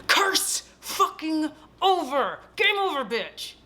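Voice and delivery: hammed-up victory cry, stretched out; mock triumph. Heroine passing the curse to the corpse, mock triumph.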